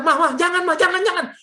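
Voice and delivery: high-pitched, urgent shushing plea; urgent retold plea. Preacher retelling his plea to screaming mother, urgent. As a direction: beg mother to stop, acted out.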